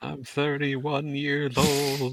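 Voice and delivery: high, slow character voice; put-on cartoon voice. Trading cartoon quotes with friends, high put-on voice. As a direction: pitch it up and drag it out. Quoting cartoon lines after impression.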